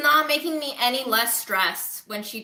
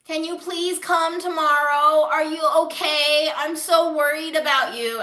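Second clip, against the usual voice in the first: worried grandma; 6 semitones higher, 6 dB louder than usual. Retold or imitated. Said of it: "she was like".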